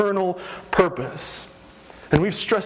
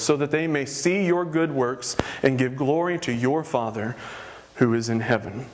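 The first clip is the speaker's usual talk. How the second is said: steady, lower Bible reading; scripture reading; 3 semitones lower than usual. Acted. Pastor reads Matthew to the congregation, measured. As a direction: read it like holy text, unhurried.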